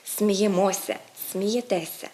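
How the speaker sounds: сміємося on -МО-, смієтеся on -ТЕ-; correct late stress. Shown as a demonstration. Teacher models correct forms, сміємося, смієтеся stressed late. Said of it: "Правильно казати".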